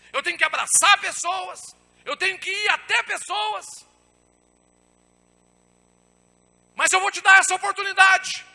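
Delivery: high, very loud shouted sermon; impassioned pulpit climax; full-force preaching. Acted. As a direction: shout it out to the whole church as God's commission. Preaches God's commission at full force.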